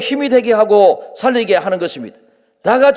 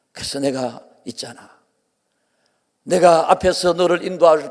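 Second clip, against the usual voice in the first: tender voice of God; 3 semitones lower than usual. Acted. God's words voiced to the believer.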